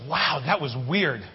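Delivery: a mild deadpan wow; slow deadpan. Retold or imitated. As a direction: say it flat and baffled, dragging. Stranger's flat reaction.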